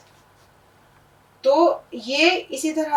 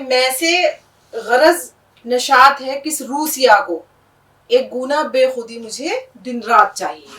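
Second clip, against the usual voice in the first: poetry recitation; 4 dB louder than usual. Shown as a demonstration. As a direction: savour each word of the couplet. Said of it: "غالب کا ایک شعر ہے".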